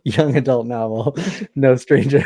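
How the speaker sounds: laughing through the title; giggling at her own mix-up. Real, not acted. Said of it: "laughing at own slip".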